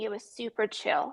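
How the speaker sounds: heavy, dripping, plainly insincere sarcasm. Opening the story of how it went with a remark, sarcastic. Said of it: "the sarcasm in my voice".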